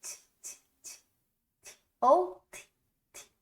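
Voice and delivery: Ti repeated in a whisper; whispered syllables. Shown as a demonstration. Teacher whispering the syllable for the children. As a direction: whisper the ti sounds. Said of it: "Ó, tim".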